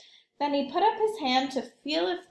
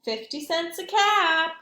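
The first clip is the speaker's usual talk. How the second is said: sing-song peddler's street call, a bit higher; calling out wares; 4 semitones higher, 4 dB louder than usual. Acted. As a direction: hawk the caps to the street. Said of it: "he called".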